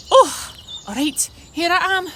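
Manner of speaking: high, loud squeaky puppet voice; puppet Jez voice. Acted. Puppet Jez greeting the children in a high, loud puppet voice. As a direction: pop up as a cheerful little puppet.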